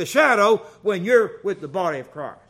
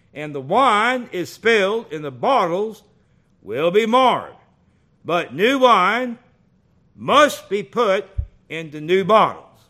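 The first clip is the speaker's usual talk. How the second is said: scripture reading; 5 dB louder than usual. Acted. Preacher reading Mark to congregation, solemn. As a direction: read the verse out with weight.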